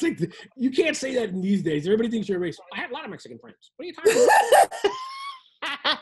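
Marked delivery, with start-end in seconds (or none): 2.7-6.0 white guy voice. Acted. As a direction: play a huffy white guy. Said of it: "What is this voice?".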